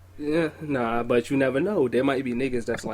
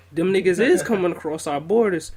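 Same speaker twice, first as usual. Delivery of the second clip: mock anti-immigrant rant; 3 semitones higher, 4 dB louder than usual. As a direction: parody a xenophobic wrestling manager, half-serious. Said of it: "I don't mean to sound like my nigga Dutch Mantel and Jack Swagger".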